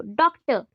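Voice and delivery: "डॉक्टर" with the weight on डॉक; stress on first syllable. Shown as a demonstration. Teacher showing first-syllable stress, stressing डॉक in "डॉक्टर". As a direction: lean on the opening डॉक of "डॉक्टर". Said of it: "पहला alphabet में आप focus ज़्यादा करो".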